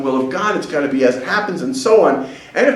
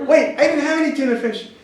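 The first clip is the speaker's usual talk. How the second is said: mock puzzled protest; 10 semitones higher than usual. Guest objecting after the deaths, high mock protest. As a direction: break in high, as if just realizing.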